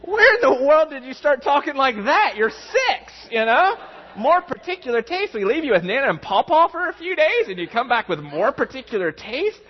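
high, laughing incredulous questions; mock disbelief. Father teasing his six-year-old about particular tastes, incredulous and laughing. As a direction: act amazed at the kid's grown-up words.

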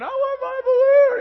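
put-on very high, loud, slow wailing kid; toddler scream. Pastor voicing his son screaming over a stolen balloon, high wail. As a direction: scream like a robbed three-year-old. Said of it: "Trace is screaming".

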